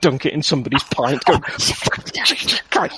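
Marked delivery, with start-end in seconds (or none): 1.6-3.0 very high, slow, breathless yelp; high squeak. Pretend. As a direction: squeak it out in shock. Mock reaction to burnt hand.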